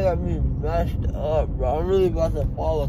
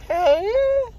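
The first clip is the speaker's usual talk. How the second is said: talking around gauze pads; muffled after dental surgery; mouth stuffed with gauze; 12 semitones higher than usual. Real, not acted. Seen 3: white gauze sticks out of mouth while speaking, after dental work.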